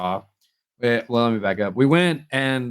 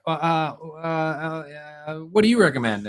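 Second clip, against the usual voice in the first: higher, halting hesitant ask; mock nervous stammer; 5 semitones higher than usual. Boyfriend imitating nervous girlfriend ordering, halting stammer. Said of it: "And then you're like".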